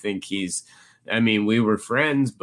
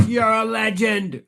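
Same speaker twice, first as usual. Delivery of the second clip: admiring fan; 12 semitones higher than usual. Retold or imitated. Fan calls out while leaving.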